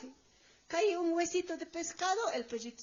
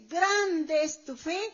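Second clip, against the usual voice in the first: admiring praise; 5 dB louder, much slower than usual. Acted. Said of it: "le está halagando, le está admirando".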